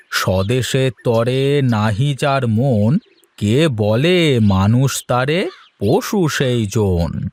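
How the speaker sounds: slow, weighty recitation of a verse; reciting verse. Acted. Teacher reciting a verse to his pupils, slow and solemn. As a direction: let each line of the couplet land slowly.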